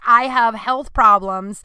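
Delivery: slow, loud and insistent; firm demand. Retold or imitated. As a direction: insist on it, slowly. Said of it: "several demands of".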